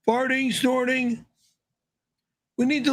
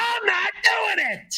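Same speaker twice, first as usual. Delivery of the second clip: slow, much higher yelling refusal; high shrill scream; 8 semitones higher, slower than usual. Acted. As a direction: shriek the refusal, slowly. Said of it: "screaming like a little bitch".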